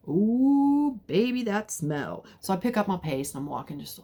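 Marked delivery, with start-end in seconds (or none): 0.1-2.3 surprised disgust. Retold or imitated. Reacting to a strong smell.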